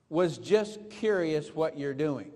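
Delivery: "Was just curious what you're doing" read slowly, each word weighed; slow it down so every word lands; deliberate, weighed-out reading; slow, pointed reading. Shown as a demonstration. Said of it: "Now, she said".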